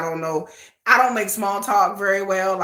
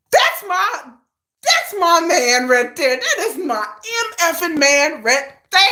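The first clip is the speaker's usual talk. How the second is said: laughing excited; 7 semitones higher, 4 dB louder, slower than usual. Retold or imitated. Gushing over a rapper, laughing shout.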